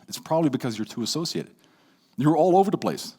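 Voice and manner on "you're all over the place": bursting and scattered; louder, higher overexcited take; excited. Shown as a demonstration. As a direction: rush it out all fired up. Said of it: "You're very excited".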